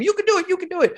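squeaky-high pretend screaming; mock crowd scream. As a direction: imitate a crowd egging someone on. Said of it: "five thousand people around you screaming your name".

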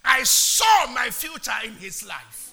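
loud, impassioned preaching. Acted. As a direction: preach it with full force. Shouting testimony.

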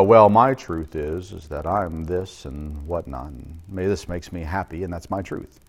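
a hint of a whiny excuse-maker; mock self-justifier. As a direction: lightly mimic someone defending their own truth. Mocking a self-focused sinner.

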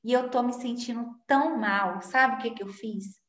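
soft, quiet retelling of the voice message; hushed confiding mother. Retold or imitated. A mother's audio message to Kaline, quiet and hushed. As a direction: murmur it like a sad confession. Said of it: "falando assim".

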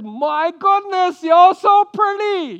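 high, loud, slow, admiring gasp; Abraham admiring wife. Retold or imitated. Abraham to his wife, a high loud admiring gush. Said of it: "he looks at his wife and he says".

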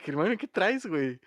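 mucho más agudo, alarmado; Harry la calma exaltado. Retold or imitated. (Harry le dice a Hermione que se calme, agudo)

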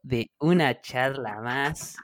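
slow, drawn-out show host intro; hammed-up radio announcer. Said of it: "¿Por qué hablas así?".

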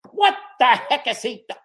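a boss playing George Bush, loud; George Bush impression. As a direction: ham up a quick Bush voice. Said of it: "frickin' George Bush?".

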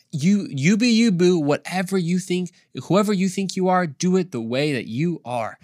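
breezy, overdone you-be-you voice; mock permissive. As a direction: sing out a hammed-up "anything goes". Mocking a careless attitude.

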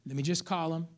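low, soft self-reassurance; calming oneself down. Retold or imitated. Cheated buyer praying before calling the seller, calming himself down. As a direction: talk yourself down quietly, pitched low. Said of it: "I calmed myself down".

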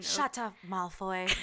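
Harry Potter-style British jab; British accent. Acted. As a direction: quote it in a put-on British accent. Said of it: "I just start saying Harry Potter lines".

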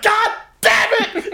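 high, stretched-out retold outburst; frustrated yell. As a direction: imitate the losing cousin's slow, high yell. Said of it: "and then he was like".

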